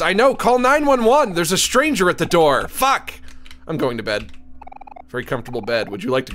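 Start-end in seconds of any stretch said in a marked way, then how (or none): 0.0-3.1 high, loud urgent outburst; mock panic. Player trying to phone for help about a stranger, mock panic. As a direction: call for help in playful alarm.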